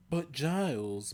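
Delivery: high drawn-out whine; pleading whiny complaint; whining. A narrator's reading. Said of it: "Buffy whined".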